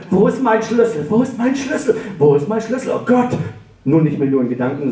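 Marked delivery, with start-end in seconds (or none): 0.1-1.1 high, worried asking aloud; rising agitation over the lost key; anxious out-loud question. Acted. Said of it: "sondern auch laut". 1.1-3.3 very high, frantic repetition; rising panic ending in oh God; panicked cry. Acted. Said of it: "sondern auch laut".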